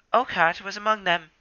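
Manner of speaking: wounded and frightened; shaky Ravenpaw. Acted. Ravenpaw continues.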